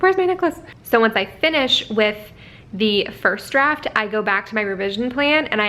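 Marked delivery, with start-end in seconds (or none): 0.0-0.6 high, panicked question; mock panic over a lost necklace; retold panic. Retelling her panic over the necklace, high. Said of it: "I was like".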